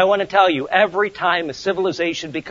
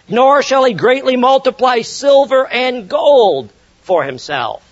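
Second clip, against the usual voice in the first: slow, weighty reading, NOT leaned on; emphatic scripture reading; 6 semitones higher, 4 dB louder than usual. Acted. Preacher reads the king's prohibitions to the congregation, slow and emphatic. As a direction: spell out each prohibition slowly.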